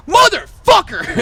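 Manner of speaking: high, drawn-out yell of disbelief; exasperated, high-pitched holler; outraged outburst. Retold or imitated. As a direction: shout it, stretched over both halves. Retells cursing out room-hogging guy.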